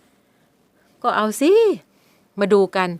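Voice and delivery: a cocky dare, holding the upper hand; challenging. Acted. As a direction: stepfather dares the girl to scream. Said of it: "วันชนะท้าทาย".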